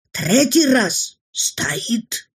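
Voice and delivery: drawn-out, slow rising build; slow suspense. Acted.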